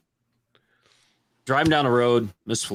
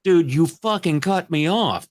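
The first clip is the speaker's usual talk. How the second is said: mock road rage; 7 semitones higher, slower than usual.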